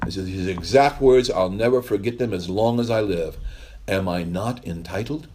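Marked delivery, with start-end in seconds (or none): 3.9-5.3 put-on "Am I not entitled?" with a mild French accent, softer; a light imitation of the French professor; heavy French accent. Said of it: "Of course, he did it with a very heavy French accent".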